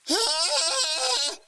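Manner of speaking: sudden high startled shriek; startled shriek as the knife drops. Acted. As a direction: jump out of your skin. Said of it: "I let out a shriek".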